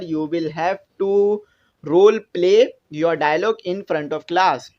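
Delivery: slow, deliberate reading of the instruction; slow textbook reading. Acted. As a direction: spell out each English word for the class. Reads English task aloud slowly. (कक्षा के लिए किताब से धीरे-धीरे पढ़ना)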